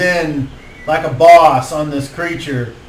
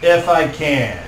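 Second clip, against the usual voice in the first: high, louder declaration in character; Kettle Tom; 6 semitones higher, 5 dB louder than usual. Acted. Game master as a party member vowing protection, raised declaring voice. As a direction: proclaim it, pitched up, easing off at the end.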